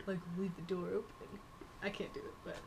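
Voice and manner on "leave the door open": softly voiced sexy line; mock seductive. Shown as a demonstration. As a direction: say it sexy, a bit softer. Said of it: "say it sexy".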